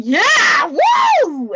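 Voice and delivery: loud, high whooping cheer; excited cheer. Retold or imitated. Mock cheering a friend who swears. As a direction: cheer them on like at a party.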